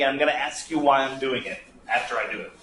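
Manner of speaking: normal talking voice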